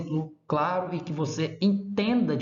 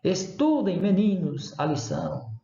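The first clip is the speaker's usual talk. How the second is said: calling out; 3 semitones higher than usual. Shown as a demonstration. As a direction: call to pupils, raised then dropping. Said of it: "estou chamando mesmo a pessoa".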